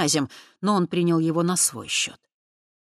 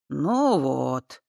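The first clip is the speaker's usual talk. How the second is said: fake disappointment. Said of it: "деланно расстроился он".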